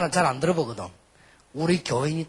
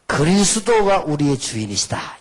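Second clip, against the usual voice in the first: slogan declaration; 7 dB louder, slower than usual. Acted. Leads congregation in declaration to repeat.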